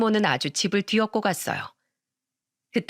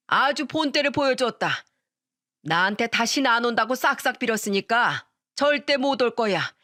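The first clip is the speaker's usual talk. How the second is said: firm dad; 3 semitones higher than usual. Acted. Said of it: "단호하게 말했어요".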